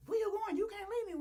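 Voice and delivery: high, loud mock pleading; plaintive begging. Woman begging her man not to leave, plaintive. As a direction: imitate a desperate cry to someone walking away.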